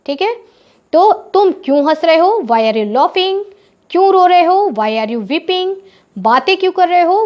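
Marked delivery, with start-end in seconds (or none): 2.4-3.4 slow dictation. Shown as a demonstration. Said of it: "तो English में कैसे बोलेंगे?". 4.7-5.8 slow and a little softer; slow dictation. Shown as a demonstration. Teacher modelling the question slowly for pupils. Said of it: "तो English में कैसे बोलेंगे?".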